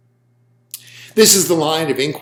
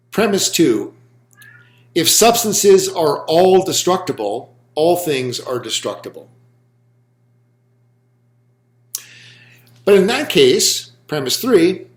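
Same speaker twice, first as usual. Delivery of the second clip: spoken out slowly for note-taking; lecturer's slow dictation with long pauses. Real, not acted. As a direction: dictate in measured phrases, pausing between each. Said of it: "I will just speak it out slowly".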